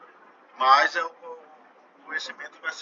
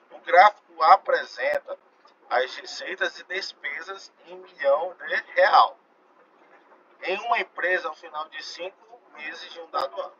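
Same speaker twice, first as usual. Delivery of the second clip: reading aloud to class; 7 dB louder than usual. Real, not acted. Teacher reading an exam question to students, deliberate read-out.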